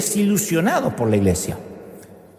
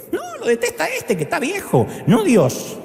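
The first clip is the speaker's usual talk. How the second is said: mock old man; 11 semitones higher than usual. Mocking aside about the old man.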